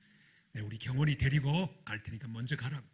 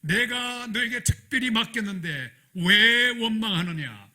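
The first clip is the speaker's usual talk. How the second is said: slow, louder, higher voice of God; the Lord asking; 7 semitones higher, 9 dB louder, slower than usual. Retold or imitated. The Lord questioning his servant, slow and solemn. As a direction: ask it slowly and solemnly from above. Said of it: "주님이 물으셨던 그".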